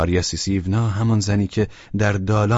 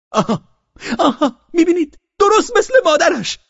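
much higher, loud gotcha cry; triumphant gloating; 9 dB louder than usual. Acted. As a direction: crow over her, mocking. Father mocks girl triumphantly. (پیروزمندانه و تمسخرآمیز، بلند)

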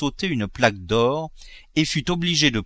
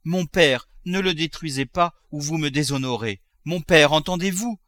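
raised, urgent appeal; urgent pleading; 5 semitones higher than usual. Acted. Daughter trying to stop her father, urgent pleading. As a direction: beg him to listen.

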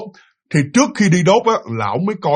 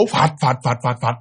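tiếng vỗ cánh; 4 semitones lower, slower than usual. Retold or imitated. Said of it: "nghe cái tiếng vỗ".

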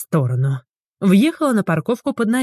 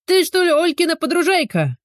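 high loud call over the fence; loud neighbour call; 11 semitones higher than usual. A narrator's reading. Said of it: "громко раздалось от забора".

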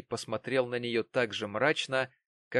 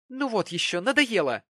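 much higher, louder, annoyed; fed-up exclamation; 11 semitones higher, 7 dB louder than usual. A narrator's reading. Mary exclaims she's sick of Jonas's nagging. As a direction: throw it off, exasperated. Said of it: "воскликнула Мэри".

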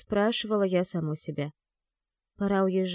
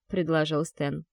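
usual speaking voice

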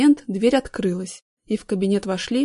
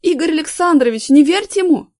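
high, loud pleading cry; shrill near-tearful shout; 7 semitones higher, 8 dB louder than usual. A narrator's reading. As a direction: yell almost in tears. Artyom pleads to the boss.

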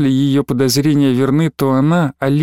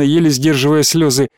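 usual speaking voice

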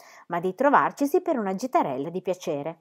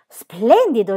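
loud, ringing one-word retort; shouting back; 3 semitones higher, 8 dB louder, much slower than usual. A narrator's reading. Pippi answering Jim from afar, shouting back. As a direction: call it straight back. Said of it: "gridò Pippi di rimando".

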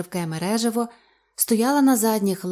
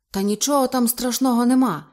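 reassuring; 4 semitones higher, 4 dB louder than usual. Acted. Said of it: "запевняв її Ейб".

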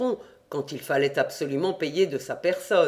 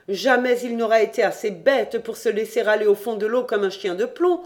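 put-on a lightly higher, sly girl's voice ending in a whoop; Jean mimics clever cousin Fanchette; Jean imitating Fanchette; 4 semitones higher than usual. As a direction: play her cunning, then leap on houp. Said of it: "Fanchette se sera dit".

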